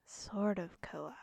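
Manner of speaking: slow hushed whisper. Acted. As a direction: breathe it out secretively. Whispered aside.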